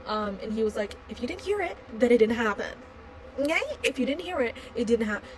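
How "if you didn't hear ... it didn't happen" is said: mock a dismissive attendant, pitched up at first; attitude. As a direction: imitate someone giving her attitude. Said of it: "He was giving her so much attitude".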